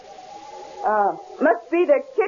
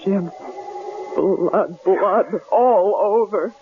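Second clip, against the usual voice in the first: lower, hushed shock, slow on the last words; horrified; 6 semitones lower, much slower than usual. Acted. Wife seeing blood in the kitchen, horrified hush. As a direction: she can barely get the words out.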